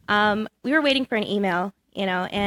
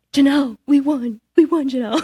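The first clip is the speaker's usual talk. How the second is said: excited news; 3 semitones higher, 6 dB louder than usual. Retold or imitated. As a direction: burst out with the winning news. Jimmy calls with winning news.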